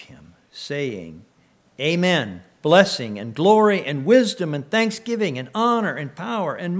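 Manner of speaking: fervent, ringing Bible reading; scripture reading. Acted. Pastor reading scripture to his church, fervent and ringing. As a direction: proclaim the passage to the congregation. Pastor reads Revelation aloud.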